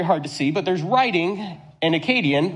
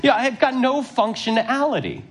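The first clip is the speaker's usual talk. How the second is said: laughing helplessly; 6 semitones higher than usual. Retold or imitated. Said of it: "And I'm like".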